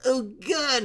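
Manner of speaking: high, loud drawn-out wail; slow hammed-up sob of despair; mock crying. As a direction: wail it like a crybaby. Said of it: "you cry some more".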